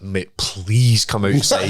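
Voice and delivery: slow, laughing please; overly polite plea. Retold or imitated. Asking the guy to fight, slow and laughing. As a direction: ask ever so nicely, slowly. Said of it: "Please, for a guy who's".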